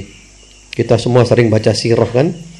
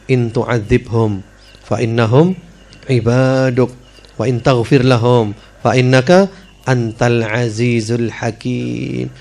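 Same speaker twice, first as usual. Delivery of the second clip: 1 slow Quran recitation; slower than usual. Acted.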